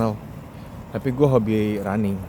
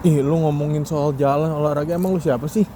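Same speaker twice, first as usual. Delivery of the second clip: mocking critic; 4 semitones higher than usual. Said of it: "Mungkin itu sering gue denger".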